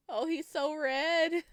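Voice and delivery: high, slow cooing. Real, not acted. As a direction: coo over him slowly, voice way up. Cooing at flustered guest.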